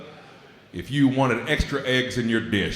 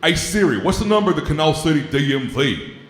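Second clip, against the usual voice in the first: louder, higher redneck voice calling out to his phone; hillbilly yelling at Siri; 5 semitones higher, 3 dB louder than usual. Retold or imitated. Man at the doctor's office shouting at his phone. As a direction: bark it at the phone like he's fed up. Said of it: "and went".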